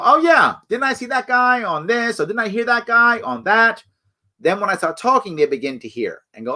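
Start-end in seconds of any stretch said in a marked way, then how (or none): 0.0-3.8 recognizing voter. Retold or imitated. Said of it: "You want someone to go".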